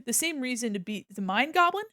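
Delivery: ordinary talk, nothing marked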